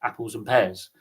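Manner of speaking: lightly imitated Cockney; Cockney accent. Shown as a demonstration. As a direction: slip briefly into a Cockney accent. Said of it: "And then you've got Cockney".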